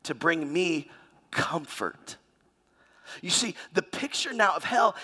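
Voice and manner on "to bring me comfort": preacher voicing the rich man's smug, conceited demand. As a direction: sneer it out like a spoiled master. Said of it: "conceited enough to say".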